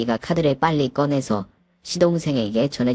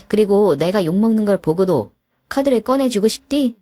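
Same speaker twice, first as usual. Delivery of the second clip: higher, louder accusing question; angry reproach; 5 semitones higher, 3 dB louder than usual. Acted. Wife accuses her husband, higher and louder. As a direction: accuse him hotly.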